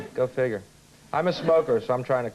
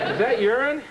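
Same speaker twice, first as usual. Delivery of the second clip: mock excited sniffing; 8 semitones higher, slower than usual. Acts sniffing around New York.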